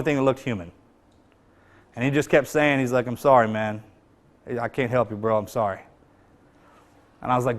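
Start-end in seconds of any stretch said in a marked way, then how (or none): 3.1-5.8 low and soft, a broken apology; quiet, barely voiced sorry; hushed apology. The blinded friend to his teammate, hushed apology.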